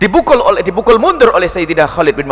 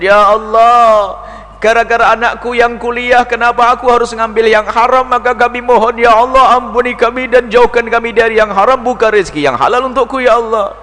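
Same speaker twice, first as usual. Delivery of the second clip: raised, pleading cry to God; pleading prayer; 4 semitones higher than usual. Acted. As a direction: beg God aloud for forgiveness. Preacher voices a pleading prayer.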